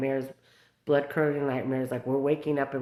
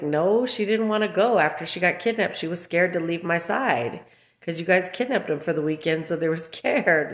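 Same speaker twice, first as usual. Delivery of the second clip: indignant; 3 semitones higher, 4 dB louder than usual. Retold or imitated. Retold retort to caseworker.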